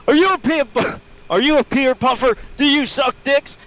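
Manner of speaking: squeaky high teasing voice; mock taunt in a high voice; high mock falsetto.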